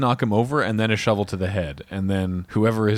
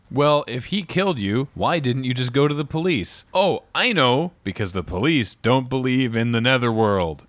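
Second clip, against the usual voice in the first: mocking Magnum; 4 semitones higher than usual. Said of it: "He says".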